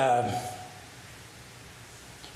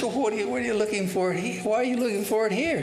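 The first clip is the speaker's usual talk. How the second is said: quick, higher, baffled questioning; a lightly voiced policeman, hurried and incredulous; puzzled policeman; 5 semitones higher, much faster than usual. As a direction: rattle off the policeman's disbelief.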